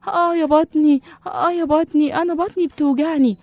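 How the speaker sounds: high, loud cries of stomach ache; moaning in pain. A narrator's reading. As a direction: wail about the aching belly. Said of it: "قعد يصرخ". (صراخ من ألم البطن)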